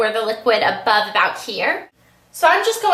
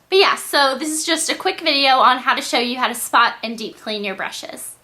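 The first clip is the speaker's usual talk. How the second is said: congested. Real, not acted. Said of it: "I sound really congested".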